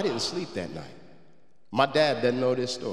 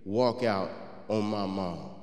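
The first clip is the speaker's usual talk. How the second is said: inner angry thought; slower than usual. Retold or imitated. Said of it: "in my mind, I said".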